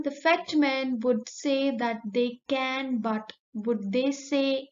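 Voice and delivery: slow, careful example reading. Shown as a demonstration. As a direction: read slowly, word by word. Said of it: "And the last one".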